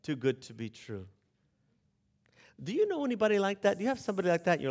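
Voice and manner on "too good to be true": dismissive doubter. Retold or imitated. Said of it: "and you're like".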